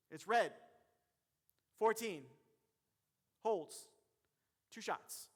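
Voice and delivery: measured call with long pauses between items; slow, calm control. Shown as a demonstration. Referee reporting a foul, slow and in command. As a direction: announce each piece separately and firmly. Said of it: "slow, calm. I'm in control".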